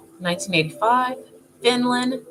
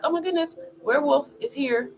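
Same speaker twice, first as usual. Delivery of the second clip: frozen with fear; 6 semitones higher, faster than usual. Acted. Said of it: "you're frozen. You're like".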